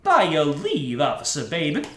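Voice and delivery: a light take on a suave cool guy. Acted. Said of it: "Let, let me give it a try".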